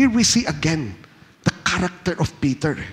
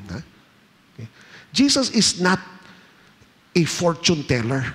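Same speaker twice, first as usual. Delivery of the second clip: normal talking voice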